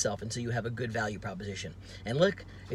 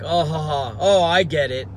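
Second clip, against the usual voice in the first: higher, louder laughing "I get it"; chuckling realization; 3 semitones higher, 8 dB louder than usual. Retold or imitated. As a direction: laugh it off as it clicks. Friend laughing realizing the flip.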